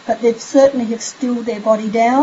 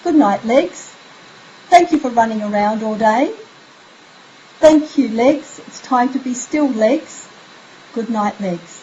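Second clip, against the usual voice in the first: gentle bedtime goodnight. Shown as a demonstration. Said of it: "And then you would move on to the legs".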